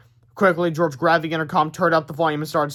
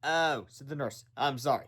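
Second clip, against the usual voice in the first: apologetic; 9 dB quieter than usual. Acted. Nurse apologetic.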